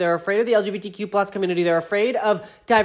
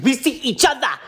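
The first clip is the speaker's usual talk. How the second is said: higher, laughing reality-star voice; Nene Leakes impression; 7 semitones higher than usual. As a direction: quote her with a laugh. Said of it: "In the words of Nene Leakes".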